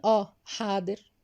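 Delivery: slow, even 'yes, sure'; cool compliance. Shown as a demonstration. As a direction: agree coldly through a fake smile. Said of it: "ببرود وابتسامة صفرة".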